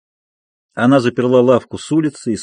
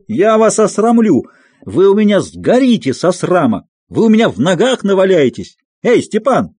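much higher, vengeful shouting; threatening screams; 7 semitones higher than usual. A narrator's reading. Aksinya screaming threats at the family, then calling her husband, much higher. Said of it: "кричала Аксинья".

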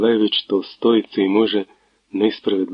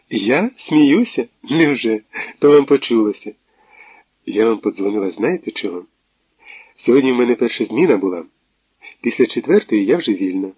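put-on playful young woman. Natalia teases Tverdokhlib and sets a meeting. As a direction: brush it off playfully.

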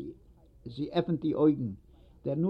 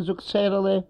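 ordinary delivery

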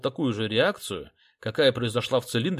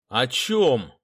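louder barked question; shout; 6 dB louder than usual. A narrator's reading. Detective leaning on the desk yelling at the boy, sharp shout. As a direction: slam the question at him. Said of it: "крикнул я".

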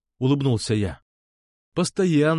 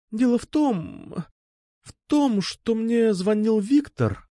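much higher, slow and halting; hesitant girl; 10 semitones higher, slower than usual. A narrator's reading. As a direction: stumble over a confession. Alpha hesitant, high, slow.

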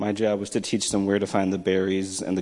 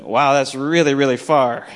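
retold amazement; 4 semitones higher, 7 dB louder than usual. Voices the impressed kids' reply.

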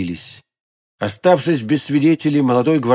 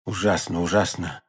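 low, very soft murmur; hushed and low; horrified whisper; 7 semitones lower, 8 dB quieter than usual. A narrator's reading. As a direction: say it under your breath in horror. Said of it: "шептал Атос".

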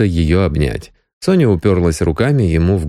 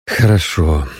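weary; 3 semitones lower than usual. A narrator's reading. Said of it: "устало сказал Крайнев".

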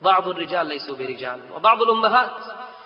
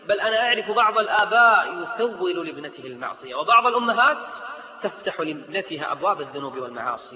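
rising indignation; 3 semitones higher, 4 dB louder than usual. Real, not acted.

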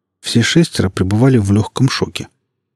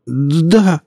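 high, stammering, pleading voice; frightened policeman; 7 semitones higher than usual. Acted. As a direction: beg for mercy, stuttering with fear. Policeman answers in fear.

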